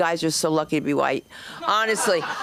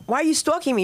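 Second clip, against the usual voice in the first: high, protesting question; mock bewildered; 8 semitones higher, faster than usual. Girlfriend challenging boyfriend hiding in the bushes, mock bewildered. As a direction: confront him with a hammed-up high plea. Acted confrontation of stalking boyfriend.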